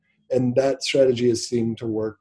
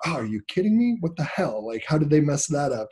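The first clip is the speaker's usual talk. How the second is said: higher-pitched, mildly exasperated muttering at himself; frustrated outburst; 4 semitones higher than usual. Retold or imitated. Man grumbling at his computer on Sunday morning, mildly exasperated. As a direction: re-enact frustrated self-talk, pitched up. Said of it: "I was just so frustrated".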